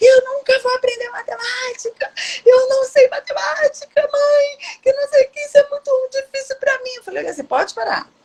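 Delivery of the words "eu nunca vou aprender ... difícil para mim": put-on high shouting child voice, carrying on. A mother acts out her son's outburst to her, imitating a child shouting. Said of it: "ele começou a gritar e falar".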